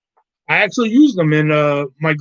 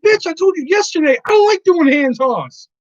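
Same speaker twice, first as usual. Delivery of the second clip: higher, louder mock outburst; retold rant; 13 semitones higher, 4 dB louder than usual. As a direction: snap back at her in a hammed-up rage. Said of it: "I was like".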